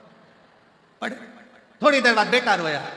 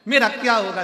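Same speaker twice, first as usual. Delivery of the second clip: higher, hammed-up widow's lament; mock loud wailing; 5 semitones higher than usual. Wife lamenting to the guru over Seth ji, mock wailing. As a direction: cry out theatrically in pretend grief. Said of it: "पत्नी रोई खूब चिल्ला चिल्ला कर".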